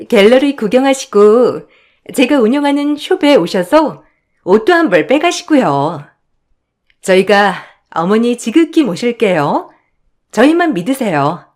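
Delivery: lightly voiced fawning daughter-in-law; politely butter up the mother-in-law; ingratiating daughter-in-law. Daughters-in-law court mother-in-law with promises, lightly ingratiating.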